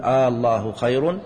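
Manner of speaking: الله opened with a long "aa", slowly: "Aallahu"; interrogative long hamza. Shown as a demonstration. Teacher quoting a verse to show questioning, long آ on الله. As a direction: draw out آ before الله, as in a question. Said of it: "تنقلب الجملة إلى استفهامية".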